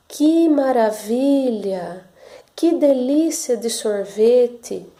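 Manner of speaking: slow, drawn-out cheerful exclamation; happy exclamation. Shown as a demonstration. Teacher demonstrating a happy exclamation for pupils, slow and cheerful. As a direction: stretch each word out with delight. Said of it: "como eu quero expressar uma frase alegre".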